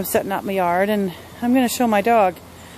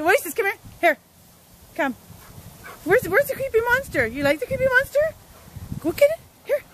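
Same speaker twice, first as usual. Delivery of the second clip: dog-talk voice; 12 semitones higher than usual. Real, not acted. Owner baby-talking her dog about the creepy monster, high.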